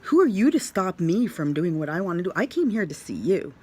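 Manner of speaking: fast, affronted pushback; mad. Retold or imitated. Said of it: "I was really mad".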